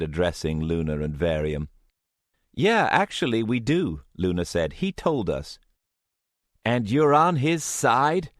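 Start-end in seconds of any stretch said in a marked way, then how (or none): 2.5-5.6 put-on defiant young woman. Luna answers firmly. 6.6-8.3 higher, slow disbelieving voice; incredulous. Acted. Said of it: "Will said incredulously".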